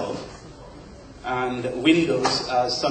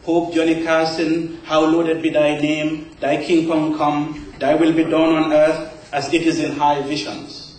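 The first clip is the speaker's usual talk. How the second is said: Catholic evangelist; 3 semitones higher, 5 dB louder than usual. Acted. Poet parodies an evangelist's Lord's Prayer, loud intoned preaching. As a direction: proclaim it like a preacher leading the congregation in prayer. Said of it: "As the Catholic evangelist put it".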